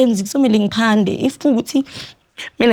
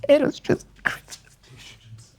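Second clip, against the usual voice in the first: slow, higher, tearful voice; real crying; 4 semitones higher, 6 dB quieter, much slower than usual. Real, not acted. Guest recalling that Christmas to the host, crying. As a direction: struggle to get it out through tears.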